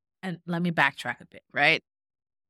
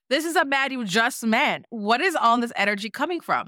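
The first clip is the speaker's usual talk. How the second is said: high incredulous; 5 semitones higher than usual. Retold or imitated. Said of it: "and I'm just like".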